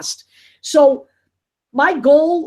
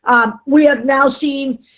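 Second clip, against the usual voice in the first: choppy, cutting out; bad connection; 3 dB louder than usual. Real, not acted. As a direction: voice breaking up on a bad line. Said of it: "you're cutting out super bad".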